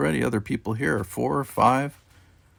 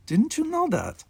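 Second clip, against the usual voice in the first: lightly voiced Russian accent, firm and final; a hint of a Russian commander's accent, giving a cryptic promise; thick Russian accent. A narrator's reading. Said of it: "His thick Russian accent".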